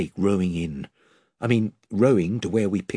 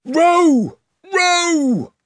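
high, loud urgent shout; bellowing; 6 dB louder than usual. A narrator's reading. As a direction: bellow the order to row. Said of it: "bellowed Caspian".

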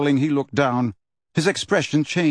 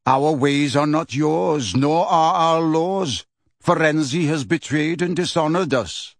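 stern centaur; 3 semitones higher than usual. Acted. Megorian rebukes Hagrid.

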